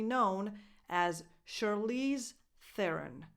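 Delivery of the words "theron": low, falling "Theron" starting with a voiceless th; THAIR-un, unvoiced first sound in "Theron". Shown as a demonstration. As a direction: say "Theron" with TH as in think. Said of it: "Voiceless T H".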